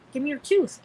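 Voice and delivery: female visitor's voice. Retold or imitated. Female visitor asks child for a tooth, high voice. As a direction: lift the pitch for a retold request. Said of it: "I heard a female voice".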